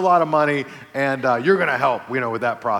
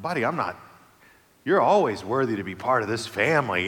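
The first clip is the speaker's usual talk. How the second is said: tender reassurance; 3 semitones lower than usual. Retold or imitated. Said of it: "I take a deep breath, bend down".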